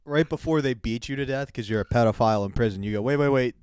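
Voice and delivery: hammed-up frantic bargaining; mock pleading. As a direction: shout it as a desperate mock appeal. Shouted riff pleading with prisoners.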